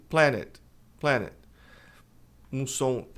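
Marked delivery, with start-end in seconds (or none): 0.1-1.3 PLANET in two syllables for "planned"; PLANET, extra syllable; wrong pronunciation of planned. Shown as a demonstration. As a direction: sound the E as "PLA-net". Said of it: "as pessoas geralmente dizem planet".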